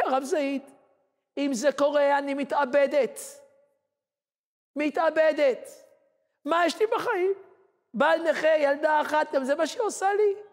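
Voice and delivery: high, anguished mother's voice; distraught mother. Retold or imitated. Despairing mother tells the rabbi she will kill herself, high and anguished. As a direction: lament like a mother at the end of her rope.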